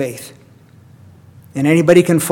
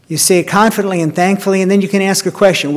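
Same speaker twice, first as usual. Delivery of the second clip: higher and quicker, "confidently and thankfully" lifted up bright; 4 semitones higher, faster than usual. Shown as a demonstration. Preacher repeating to his congregation, higher and faster. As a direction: sing out the thanks with rising conviction.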